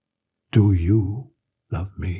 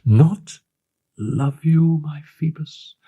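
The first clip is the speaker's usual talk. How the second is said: anguished cry; 11 semitones higher, slower than usual. A narrator's reading. The girl crying out to the captain in anguish. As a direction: cry it out in protest. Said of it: "cried the poor wretched child".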